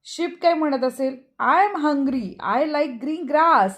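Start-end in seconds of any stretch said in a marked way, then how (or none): 1.4-3.7 put-on very slow, drawn-out, childlike read; teacher voices the sheep for pupils, very slowly. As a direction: spell it out slowly for the class.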